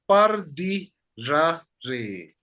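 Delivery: spaced-out teaching demo of "par di ra re"; slow model phrase. Shown as a demonstration. Teacher offers students another way to say it, slow model phrase. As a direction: say "par di ra re" slowly, word by word. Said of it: "Or you can say".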